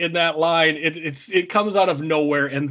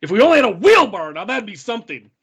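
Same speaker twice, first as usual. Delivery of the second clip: fast, louder burst of conviction; mock yell; 4 semitones higher, 4 dB louder, faster than usual. Fan blurts out Wesley's wheelbarrow line, mock yelling. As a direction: blurt it out with total certainty. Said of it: "And when he just yells".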